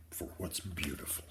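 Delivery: tender hushed whisper; soft whisper. Acted. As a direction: let grandma breathe the wisdom softly. Nana gently teaching the boy.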